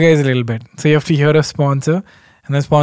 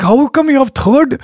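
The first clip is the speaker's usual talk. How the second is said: higher, eager questioning; curious fan voice; 5 semitones higher than usual. Retold or imitated. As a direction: imitate a nosy fan asking. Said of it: "They're like".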